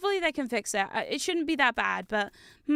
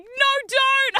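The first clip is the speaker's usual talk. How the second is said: high, loud mock plea; alarmed pleading; 13 semitones higher, 7 dB louder than usual. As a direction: imitate a wife begging someone not to cry. Wife pleading at the sobbing, retold.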